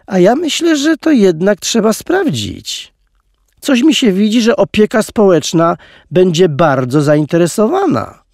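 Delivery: a lightly voiced hiss of a menacing guard; hissed threat. A narrator's reading. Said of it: "wysyczał jej strażnik".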